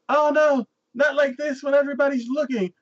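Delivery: hammed-up damsel embarrassment; flustered princess. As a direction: play a scandalized princess.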